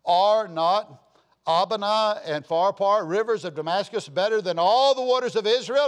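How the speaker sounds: loud, proud boast of a mighty man; boastful Naaman. Retold or imitated. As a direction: puff up and boast. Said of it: "he says".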